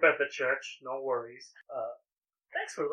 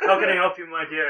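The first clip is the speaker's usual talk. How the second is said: elven husband greeting; 3 semitones higher, 4 dB louder, faster than usual. Acted. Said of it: "he goes".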